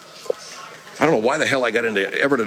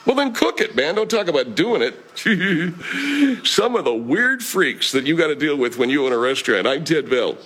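pitched-up exasperated restaurant owner; Ted Bell; 4 semitones higher than usual. Acted. Owner berates his chef and signs off, exasperated. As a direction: snap at the chef, then grumble to the audience.

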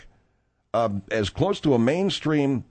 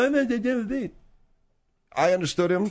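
drawled sidekick voice; 9 semitones higher, much slower than usual. Acted. Host slow high sidekick.

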